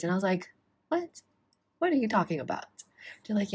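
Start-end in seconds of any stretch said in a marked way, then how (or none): 0.9-2.7 higher, jumping up on What, retold outrage; mock stunned disbelief; shocked disbelief. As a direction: imitate being stunned by the news. Retold hospital wait shock.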